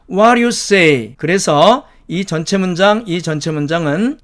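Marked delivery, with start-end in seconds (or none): 0.1-1.1 "What do you say?" slowly blended as "wara-ya say" for students to copy; "What do you say?" with flapped t and run-together words, slow; linked model reading. Shown as a demonstration. Teacher models "What do you say?" for students to repeat. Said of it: "따라서 한번 해보시겠습니까?".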